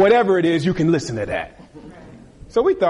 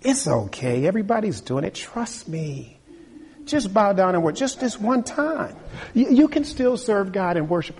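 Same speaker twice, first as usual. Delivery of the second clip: coaxing tempter; 4 semitones higher than usual. Acted.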